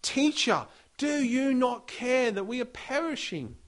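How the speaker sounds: terrified disciples crying out to their teacher; panicked plea. Acted. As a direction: beg for rescue in a panic. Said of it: "They wake him up panicking".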